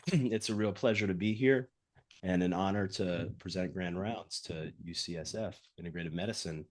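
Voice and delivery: husky from a cold; hoarse voice. Real, not acted. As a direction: talk through a head cold, husky. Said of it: "if I sound like a husky, husky voiced radio announcer".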